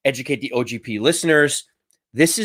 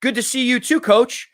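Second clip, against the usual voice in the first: proper friendly response; 8 semitones higher than usual. Retold or imitated. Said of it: "the proper response is like".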